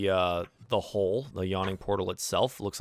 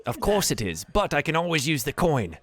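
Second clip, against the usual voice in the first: Yagra; 7 semitones higher, 3 dB louder than usual. Acted. Yagra answers Mina.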